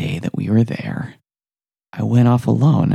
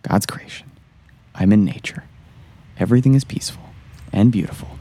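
forced calm; faster than usual. Acted. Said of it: "I need to refocus".

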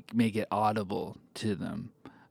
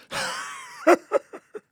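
high wheezy cackle; old person's laugh; 5 dB louder than usual. Shown as a demonstration. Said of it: "that's an old person's laugh".

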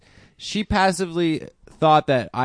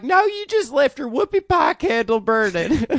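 high, louder mock mom voice; mom's reply; 11 semitones higher, 3 dB louder than usual. Mom in the story answering her son, mock high voice. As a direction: answer like a bemused mother, pitched way up.

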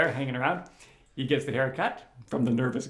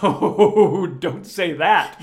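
panicked inner voice; 4 semitones higher, 10 dB louder, much slower than usual. Retold or imitated.

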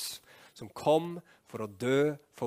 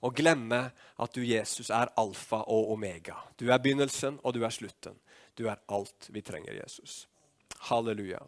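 earnest prayer. Real, not acted. Preacher closing the prayer in Jesus' name, earnest prayer.

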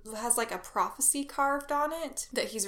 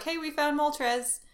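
slow, slightly higher robotic read; light computer announcement; 4 semitones higher than usual. Retold or imitated. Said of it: "the computer is like".

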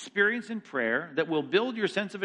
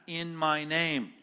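IN MY NAME slowed and weighted; each word of "in my name" given weight; stress on IN MY NAME; much slower than usual. Real, not acted. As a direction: lean deliberately on "in my name". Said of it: "You see what I'm emphasizing here?".

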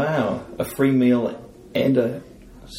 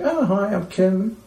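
high mock greeting; 11 semitones higher, slower than usual. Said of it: "I was like".

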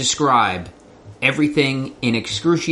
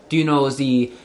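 put-on German accent; 2 semitones higher than usual. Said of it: "increasingly more German".

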